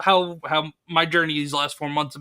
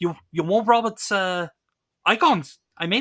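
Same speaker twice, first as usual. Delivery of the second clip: light, slight put-on English accent; 3 semitones higher than usual. Retelling what a friend said, imitating an english accent. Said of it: "his little, uh, English accent there".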